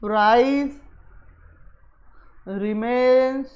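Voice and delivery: slow, each word held and separated; long pauses between words; writing-along pace. Real, not acted. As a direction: say it word by word as you write. Writing out, then reading back.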